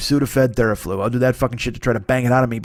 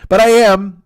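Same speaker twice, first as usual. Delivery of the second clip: laughing; 8 semitones higher, 9 dB louder, slower than usual. Real, not acted. Laughing admission of being sick.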